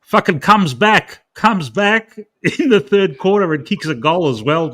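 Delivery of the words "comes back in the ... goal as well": chuckling through the words; laughing while telling. Real, not acted. Footy mate recalling a hero's grand final comeback, laughing.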